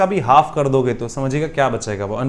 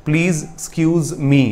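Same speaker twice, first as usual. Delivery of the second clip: each word drawn out slowly; slow repeat; much slower than usual. Shown as a demonstration. Teacher slowly repeating the phrase for students. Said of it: "I repeat".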